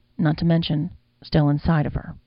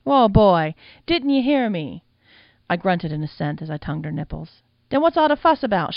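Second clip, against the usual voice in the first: surprised madam; 4 dB louder than usual. Acted. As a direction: protest between squeals. Madam's voice in the story.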